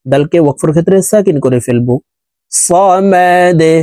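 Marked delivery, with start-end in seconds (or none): 3.1-3.7 মা দে with the দ bounced down sharply; qalqalah. Shown as a demonstration. Teacher demonstrating the echoing দ at the stop. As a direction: give the দ in মা দে a downward bounce. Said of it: "ধাক্কা দিয়ে কলকলা করে উচ্চারণ করতে হবে".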